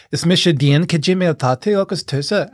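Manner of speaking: put-on Irish-speaking voice in an Irish accent. Chatting in Irish with an Irish accent. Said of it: "it's not in an English accent".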